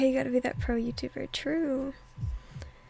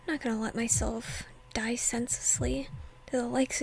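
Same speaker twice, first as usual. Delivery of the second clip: hushed whisper narrating the scene; whispered reading. Acted. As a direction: breathe the story out in a whisper.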